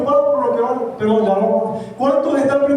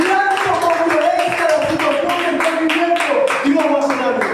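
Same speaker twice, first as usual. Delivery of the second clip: fervent sermon building higher, then settling; impassioned preaching; 3 semitones higher than usual. Acted. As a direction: drive the promise home to the congregation. Impassioned preaching, voicing God and believer. (prédica ferviente que va creciendo)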